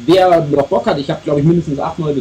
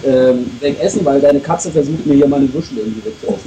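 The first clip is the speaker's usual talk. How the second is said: mouth full. Real, not acted. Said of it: "man spricht ja nicht mit vollem Mund".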